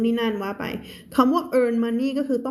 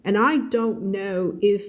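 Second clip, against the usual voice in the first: slow, careful story reading for learners; measured teacher's narration; slow read-aloud; much slower than usual. Acted. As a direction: read the story word by word, clearly.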